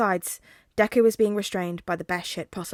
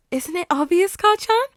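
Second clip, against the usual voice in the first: high, loud possessive croon; creepy flirty villain; 10 semitones higher, 9 dB louder than usual. Acted. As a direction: purr it with menace. Villain teases.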